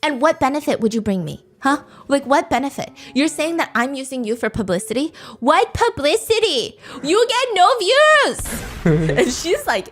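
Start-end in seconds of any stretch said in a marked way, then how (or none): 5.4-8.6 hammed-up yelling at the ex; mock yell.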